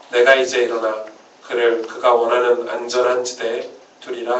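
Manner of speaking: measured psalm reading, phrase by phrase; scripture reading. Acted. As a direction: read the psalm out formally to the congregation, pausing between phrases. Reads the psalm aloud.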